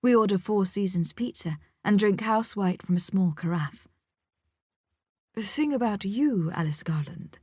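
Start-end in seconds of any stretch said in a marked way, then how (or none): 5.3-7.4 mock Scottish accent. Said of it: "he says in a mock Scottish accent".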